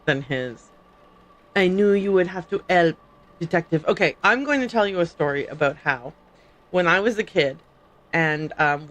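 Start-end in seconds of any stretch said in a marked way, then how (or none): 1.6-3.9 put-on French accent with a dropped h; fake French accent. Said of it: "my fake French accent".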